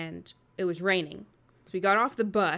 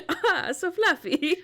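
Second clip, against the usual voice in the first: high mocking coo; 10 semitones higher, 5 dB louder, slower than usual. Mocking fluffy wood.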